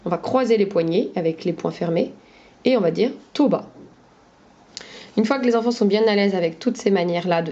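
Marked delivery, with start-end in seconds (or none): 3.3-3.7 "to ba" with the syllables of bateau swapped; syllabes inversées. Shown as a demonstration. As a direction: say "to ba" as a reversed word. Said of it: "on inverse les syllabes". (« to ba », syllabes de bateau inversées)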